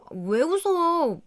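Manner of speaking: high, drawn-out bewildered question; puzzled demand. Retold or imitated. Wife asking husband why he laughs, slow and bewildered. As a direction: stretch it out, baffled by his laugh.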